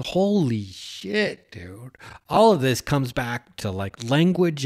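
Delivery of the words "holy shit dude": awed exclamation. Retold or imitated. Man recalls his bathroom revelation, awestruck. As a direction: stretch it out slowly, awestruck. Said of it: "I'm thinking".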